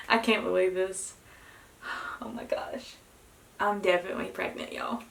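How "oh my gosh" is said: whispered awe. Real, not acted. Reacting to positive test.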